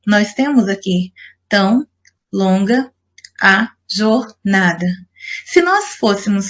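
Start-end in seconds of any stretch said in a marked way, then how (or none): 1.5-4.9 "tão longa a jornada" broken into slow pieces with pauses; syllable counting. Shown as a demonstration. Teacher counting a haiku's poetic syllables, "tão longa a jornada" piece by piece. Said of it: "a contagem é feita da seguinte forma".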